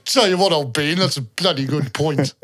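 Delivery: hammed-up old-fashioned English toff accent; mock posh British. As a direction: play an upper-class British chap. Hams up posh old-bean British.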